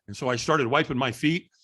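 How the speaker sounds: ordinary delivery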